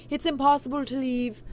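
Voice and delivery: witch's line slipping into Scottish; accidental Scottish. Shown as a demonstration. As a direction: let the accent drift Scottish. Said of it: "it's going Scottish".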